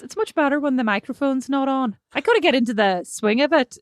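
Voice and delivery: imitation Northern Irish lilt; Northern Irish accent. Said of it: "You sound a bit like Nadine".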